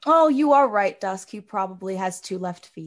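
lightly put-on courtly character accent; Dusk accent. Lady Alyssa agrees with Dusk about a clumsy guest, in his character accent. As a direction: slip into a formal courtier's accent. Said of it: "Sorry, I slipped into Dusk accent".

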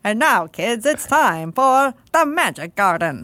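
put-on slow old-time radio host; flapper voice. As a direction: announce it like a vintage kids' radio show. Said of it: "The flapper voice from?".

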